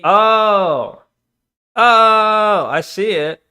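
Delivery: sudden loud realizing oh; surprised. Real, not acted. Spots the donation on screen.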